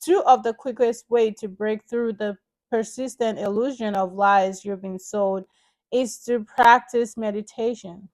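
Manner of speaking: emphatic, measured book reading; read-aloud narration. Acted. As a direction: read the chapter out clearly to listeners. Reads book chapter aloud to viewers.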